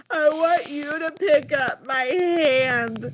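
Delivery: high, slow mimicked wail; crying child. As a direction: whine it out like a tantruming kid. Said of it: "making him cry more".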